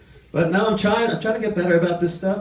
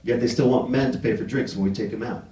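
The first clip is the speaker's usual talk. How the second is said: complaining guy; 8 semitones lower, 3 dB quieter than usual. Retold or imitated. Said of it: "This guy I know, he's like".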